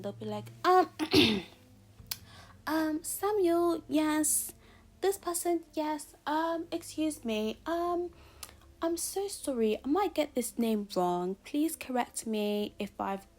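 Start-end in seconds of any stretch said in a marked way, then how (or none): 0.6-11.4 high-pitched, loud, put-on British accent; hammed-up British teacher, slow and halting over the names. Teacher calling the register, exaggerated British accent. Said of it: "I'll do it in a British accent". 11.4-13.3 slow, lightly put-on British accent; a polite British teacher, slightly overdone. Teacher asking to be corrected on a name, mock British accent. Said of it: "why am I doing a British accent wrong".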